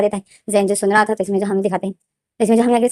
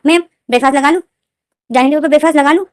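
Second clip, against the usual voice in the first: servant voice; 4 semitones higher, faster than usual. Retold or imitated. Servant asks madam.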